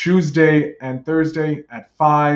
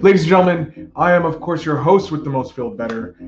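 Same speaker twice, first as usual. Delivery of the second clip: ringmaster; 4 semitones higher than usual. Pretend. Redoes the showman opening.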